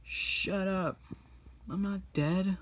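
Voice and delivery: a lightly voiced grumpy old master. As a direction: brush Po off in play. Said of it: "He's like".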